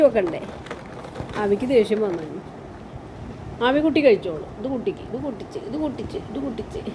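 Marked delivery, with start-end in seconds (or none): 4.6-6.8 quiet, repeated feeding patter; soft murmuring. Real, not acted. Feeding bits to the pet, quiet murmuring. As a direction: say it softly, piece by piece.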